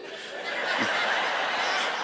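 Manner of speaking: breathy laughing buddy; buddy's laugh. Retold or imitated. Buddy laughing on the drive home, breathy laugh. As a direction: let the buddy's laugh roll out. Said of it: "my buddy just kept laughing".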